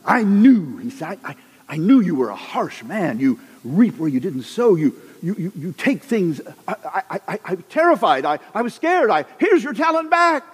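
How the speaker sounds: a cowering servant tripping over I, I, I; mock terrified servant. One talent servant returning buried money, stammering mock fear.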